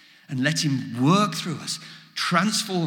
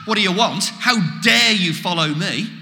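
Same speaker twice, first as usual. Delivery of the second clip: louder, indignant challenge; a pretend telling-off, stressing DARE; mock scolding; 2 semitones higher, 5 dB louder than usual. Preacher shows how Jesus did not speak to disciples, scolding. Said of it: "Jesus doesn't scold the disciples".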